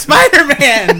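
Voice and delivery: match the big reveal; echoed reveal. Acted. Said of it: "echoing the reveal".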